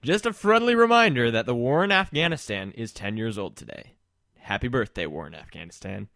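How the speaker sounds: mock news read; announcer voice. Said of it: "Shall I do my announcer voice".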